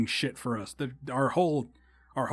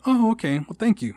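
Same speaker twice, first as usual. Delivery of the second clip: lightly voiced older lady, pitched up high; a bright high thank-you from a sweet older lady; high polite old lady; 8 semitones higher, 5 dB louder than usual. Older lady at the protest thanks him, voice pitched up high.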